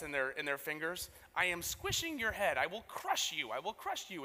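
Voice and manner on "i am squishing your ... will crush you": a hint of a crushing villain; mock menace, squishing heads; cold rasping evil emperor. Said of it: "put people's heads in a little vice".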